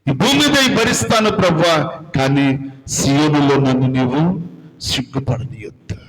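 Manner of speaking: penitent prayer that builds and sinks to a hush; pleading prayer. Acted. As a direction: beg the Lord for mercy, fading out at the end.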